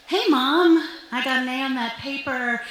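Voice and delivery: bright, hinting mom-pleaser voice; subtle hints. Retold or imitated. To mom, dropping hints with forced cheer. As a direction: slip it in casually. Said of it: "drop some subtle hints".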